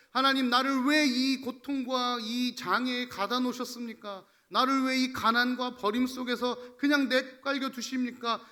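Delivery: impassioned retold protest to God; resentful complaint. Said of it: "막 원망하고 불평하려는". (하나님께 원망을 쏟아내듯 따지는 말투)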